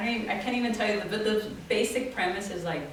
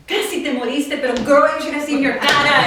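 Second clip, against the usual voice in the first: teasing family reenactment; 8 semitones higher, 12 dB louder than usual. Retold or imitated. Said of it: "everyone's reenacting it".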